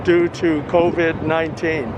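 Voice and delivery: words muffled by a face mask; muffled through mask. Real, not acted. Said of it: "so if it's sort of muffled".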